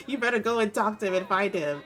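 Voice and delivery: urging through laughter; laughing urging. Acted. Friend teasing Elion to chase the guy, laughing. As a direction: push her friend on, giggling. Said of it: "Marlo's like".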